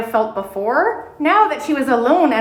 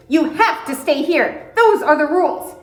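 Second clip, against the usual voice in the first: Tilly scolding; 5 semitones higher than usual. Acted.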